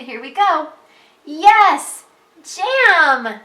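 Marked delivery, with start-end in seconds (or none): 1.2-3.4 high, loud excited exclamations; excited reading. Shown as a demonstration. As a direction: yell both words with excitement. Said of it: "Remember to read excited".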